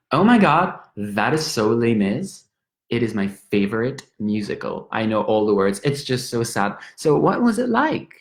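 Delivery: a lightly voiced, chatty Irish woman, gushing. An Irish woman in a pub chatting up a Frenchman, lightly voiced and gushing. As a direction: gush over the cute Frenchman, all sympathy.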